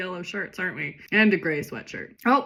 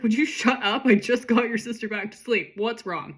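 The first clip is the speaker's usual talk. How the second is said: acted parental snapping; annoyed mother scolding; 4 semitones higher than usual. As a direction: tell the kid off, exasperated. Mother scolds noisy daughter.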